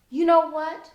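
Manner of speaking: flustered blurt. A narrator's reading. Genesis blurts a cover story.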